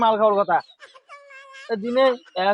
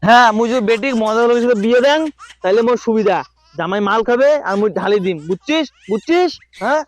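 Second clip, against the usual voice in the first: put-on town drunk. Drunk father insisting.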